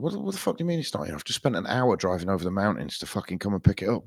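retelling his fed-up disbelief at the missing ladder; incredulous outburst. Retold or imitated. A driver on the phone, incredulous and fast, with the pitch shooting up. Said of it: "I was like".

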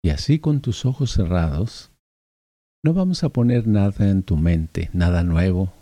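unhurried meditation guide's voice; guided meditation. Acted. Guide asks listener to let their energy flow, guided meditation. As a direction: gently guide the listener inward with pauses.

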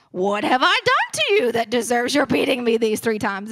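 a modest attempt at a donkey talking, not quite Shrek. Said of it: "it has to have some sort of voice".

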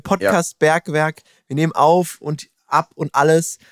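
chewing while talking; smacking lips through a mouthful; mouth full. Real, not acted. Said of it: "das schmatze ich mir jetzt nebenbei rein".

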